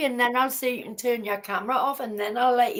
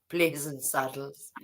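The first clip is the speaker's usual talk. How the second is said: laughing whisper; 9 semitones lower, 8 dB quieter than usual. Real, not acted.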